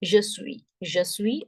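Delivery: suis as "swee", final s silent; French pronunciation of suis. Shown as a demonstration. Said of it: "S U I is suis".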